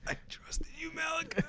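squeaky, very high mock voice; mock high squeak. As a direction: pitch it way up, mock-hurt. Betrayed friend, squeaky mock.

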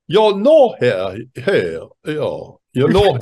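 Wisconsin-tinged mock French accent; badly faked French accent. Shown as a demonstration. Priest trying out his guest's accent, badly faked French accent. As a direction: attempt French through a Wisconsin accent, lurching in pitch. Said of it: "Can you work the French accent in with the Wisconsin accent".

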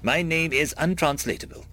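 monotone translator robot voice. Acted. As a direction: speak like a flat machine translator. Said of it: "a robotic voice with little inflection".

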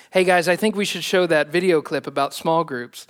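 a light hint of a California surfer accent. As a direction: lightly voice a laid-back California AV guy. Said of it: "like, a California accent".

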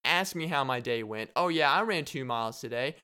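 gloating taunt. Retold or imitated. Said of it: "be like".

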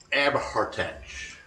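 ABHARTACH drawn out slowly, falling at the end; tentative pronunciation. Real, not acted. Host attempting an Irish name, tentative slow pronunciation. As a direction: sound out Abhartach slowly and carefully. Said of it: "not gonna pronounce this right".

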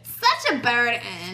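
slow Long Island drawl repeated; a lighter Long Island accent. Retold or imitated. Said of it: "worst Long Island accent I've ever done".

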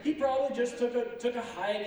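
mocking, goading preacher voice; mocking taunt. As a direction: taunt them like Elijah egging them on. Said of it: "making fun of them".

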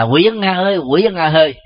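high-pitched call by name; grandchild calling grandfather. Acted. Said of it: "như một đứa cháu kêu, à, ông nội".

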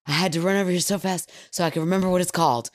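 rushed mock-breathless kid; quick, lightly acted breathless explanation; out of breath. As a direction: imitate a boy blurting it out after running. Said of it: "catch your breath".

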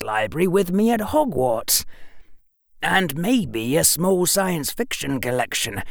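put-on a bright boy working it out aloud; clever boy. A narrator's reading. Harry voiced by narrator.

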